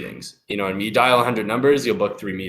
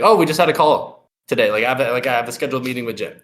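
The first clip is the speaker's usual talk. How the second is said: familiar, knowing; 2 semitones higher than usual. Shown as a demonstration. Caller telling secretary about a scheduled meeting, familiar and offhand. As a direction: sound like you already know him. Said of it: "make sure you sound like you know the person".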